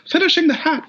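high head voice singing. Retold or imitated. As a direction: flip up into head voice. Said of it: "you're just like".

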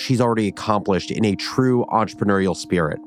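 measured podcast narrator's aside; host voice-over. A narrator's reading. Host explaining the guest's legal dispute to listeners, narrated. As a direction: present it as a scripted bridge.

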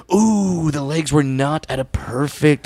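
fussy critic voice, lightly done; lightly imitating a picky TV judge; sniffy commentator, gently mocked. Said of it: "the one commentator's like".

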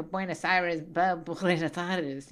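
mock Buenos Aires Spanish, drawn out slowly; slow, put-on Porteño Spanish accent; pretentious Spanish accent. Mother mocks son's pretentious Spanish, put-on Buenos Aires accent. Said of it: "you're trying to be mysterious or something".

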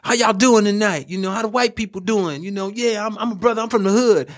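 mock the stock comedian opener; typical comic act. Mocking other comedians' stock opener in a high voice. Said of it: "come out and go like".

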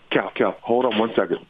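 calling off-mic to his son; head turned away from the mic; turning away from phone. Real, not acted. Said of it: "that was my son just walked in".

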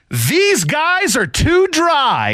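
high, slow mock announcement; playful teasing. Pitcher about to spray champagne on the guys, high slow teasing. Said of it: "he looks at us and goes".

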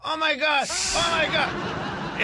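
"oh my God" cada vez más agudo y arrastrado; imitando a la vecina. Retold or imitated. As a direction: imita los gemidos de la vecina subiendo de tono. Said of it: "se la pasa diciendo". (imitación burlona de la vecina)

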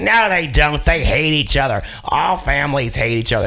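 hammed-up interrupting retort; Cloris Leachman. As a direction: butt in and contradict, imitating a crazy star. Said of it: "talking over everybody and interrupting".

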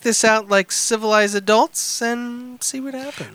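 deliberate storytelling delivery, rising then dropping away; dramatic letter reading. Acted. Reading a crude missed-connection letter to co-hosts, mock-dramatic. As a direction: read it out with mock-serious drama.

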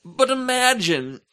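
high, slow dreamy But imagine. Pretend. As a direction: sell the dream, slowly. Dreamy pitch.

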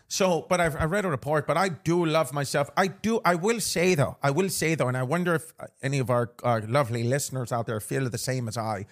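rambling in a playful Irish lilt; put-on Irish accent. Host confiding about holiday season, mock Irish accent. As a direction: keep up the Irish brogue.

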